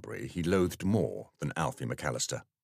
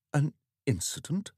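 puzzled vicar; 8 semitones higher than usual. Acted.

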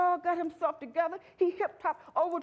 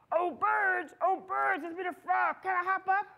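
lightly voiced frog, raised pitch; frog calling up; 4 semitones higher than usual. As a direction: call up to the birds as a hopeful frog. Frog calls up to the birds.

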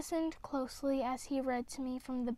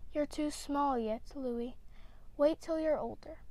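more gently. Acted. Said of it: "Then more gently".

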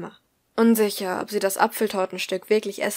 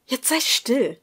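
higher, irritated snap; quiet hiss; 4 semitones higher, 4 dB louder, slower than usual. A narrator's reading. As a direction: hiss at him to shut up. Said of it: "fauchte sie leise".

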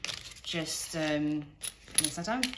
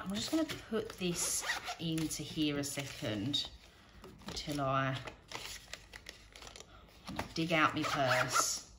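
usual speaking voice

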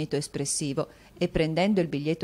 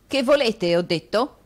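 grave; 7 semitones higher, 7 dB louder than usual. Acted.

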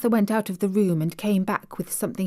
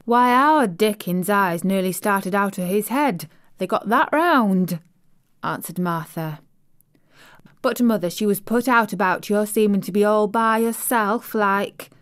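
lightly voiced Yorkshire housemaid, chatty and pleased; broad Yorkshire vowels, friendly and eager; Yorkshire maid; 2 semitones higher, 3 dB louder than usual. Maid telling the little girl about home, light Yorkshire accent. Martha's Yorkshire dialect speech.

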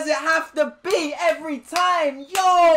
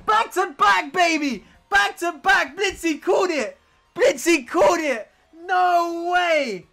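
voice going from shouting; slower than usual. Real, not acted. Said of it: "My voice is going".

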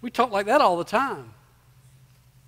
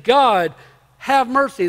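retold plea, a touch louder; crying out; 4 dB louder, slower than usual. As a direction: cry out to God, mildly raised. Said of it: "he was crying out".

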